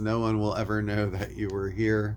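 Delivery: ordinary talk, nothing marked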